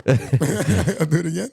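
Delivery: slow laughing words. Real, not acted. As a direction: laugh while saying it.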